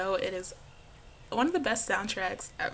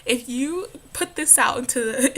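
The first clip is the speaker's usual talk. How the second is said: slow, higher mock challenge; imitated English teacher; 5 semitones higher, 5 dB louder than usual. Student retelling English teacher's dare to class, imitated teacher. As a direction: declaim it like a teacher issuing a challenge. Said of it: "he's like".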